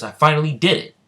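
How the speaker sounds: high, loud burst of triumph; triumphant exclamation. Acted. Noel succeeds after an hour of practice, triumphant. Noel celebrates finally managing it.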